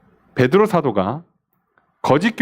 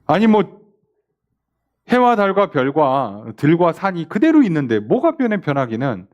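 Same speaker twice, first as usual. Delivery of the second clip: dismissive scoffing. Retold or imitated. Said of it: "이렇게 얘기하는 겁니다".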